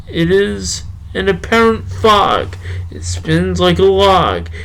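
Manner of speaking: measured poetry recitation, slowing near the end; unhurried spoken-word delivery; poem reading. Acted. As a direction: read the poem with feeling, lingering on lines. Reads his poem aloud.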